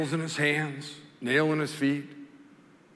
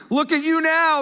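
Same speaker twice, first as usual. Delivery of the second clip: loud, higher jeering shout; mocking yell; 7 dB louder than usual. Crowd jeering at Jesus on the cross, loud mocking yell. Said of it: "they yelled at him".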